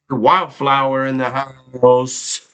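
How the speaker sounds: slow drawn-out hype call; hype announcer. Real, not acted. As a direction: announce the viewer like a hype man. Hyping a featured viewer.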